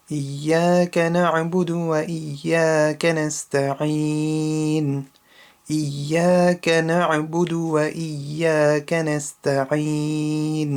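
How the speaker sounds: Quran recitation. Shown as a demonstration. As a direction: recite each verse carefully as a teacher's model. Practises the verse several times.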